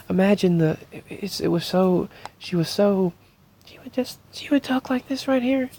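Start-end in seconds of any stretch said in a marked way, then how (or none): 4.3-5.7 sweetest, high, quick, little mousy voice. Remembering a woman who meant so much, imitating her sweet mousy voice. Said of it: "she had the most mousy little, just the sweetest little voice".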